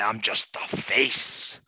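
slow confiding whisper; Joe Biden whisper. Acted. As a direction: whisper the secret slowly.

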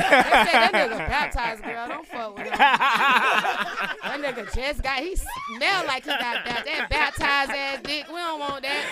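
mock gossiping girls. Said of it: "They said".

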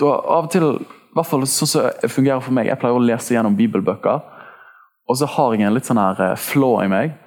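ordinary delivery

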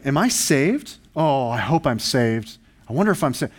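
lightly acted worried self-questioning; mock anxious doubt. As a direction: voice a believer's nagging doubt, with a touch of worry. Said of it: "Have you wrestled with this".

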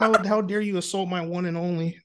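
laughing mock outrage; hammed-up offended fan. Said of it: "those are the kind of comments and message I would get".

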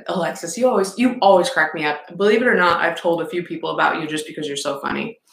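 talking while crunching; eating chips while talking. Real, not acted. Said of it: "sorry, I'm crunching".

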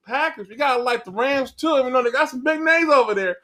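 hammed-up Southern pundit in a cowboy hat; cowboy-hat pundit in a mock Southern accent. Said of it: "screaming in a Southern accent".

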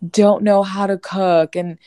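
high, small shrinking voice; little crab voice. Acted. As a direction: squeak it out like a tiny scared crab. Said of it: "That's your little crab voice".

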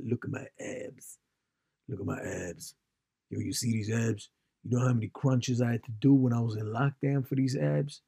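imitation American bragging about abs; mock American accent, showing off. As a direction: put on an American gym-bro accent. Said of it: "wouldn't call them crisps in that accent".

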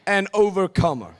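loud, high triumphant cry; shouted declaration. Shown as a demonstration. Preacher's final call, shouting it with the church. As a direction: belt it out with full conviction. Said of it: "One more time".

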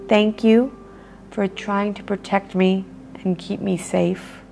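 grateful and gentle; loving voice. Shown as a demonstration. Speaker thanking her ego gently in a loving voice. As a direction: thank it kindly. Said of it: "talking to it in a loving voice".

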